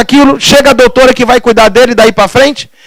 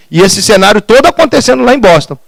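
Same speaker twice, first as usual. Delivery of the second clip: ordinary talk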